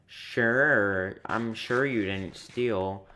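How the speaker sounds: slow, drawn-out sarcastic sure. Retold or imitated. Karen doubting the speaker didn't steal, slow and sarcastic. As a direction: imitate her mocking disbelief, dragging it out. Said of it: "a sarcastic, sharp, sarcastic".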